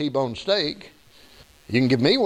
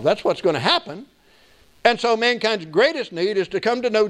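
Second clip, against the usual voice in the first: higher-pitched, emphatic sermon delivery; preaching; 5 semitones higher than usual. Real, not acted. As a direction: preach the point home to the congregation. Preaches in raised voice.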